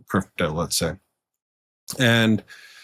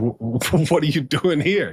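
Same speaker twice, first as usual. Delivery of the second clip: stammering, surprised, with a laugh, pitch up; a delighted double-take on seeing an old friend; surprised greeting; 5 semitones higher than usual. Retold or imitated. Surprised running into old colleague.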